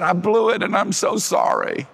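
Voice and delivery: high, loud, breathless retelling; high excited letter writer. Retold or imitated. Preacher reading the woman's letter in a high loud voice. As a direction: gush like an overwhelmed woman.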